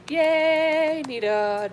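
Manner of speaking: high, loud cheer; excited yay. Real, not acted. Welcoming Nita to the face mask, a loud high cheer. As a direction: cheer like a friend just walked in.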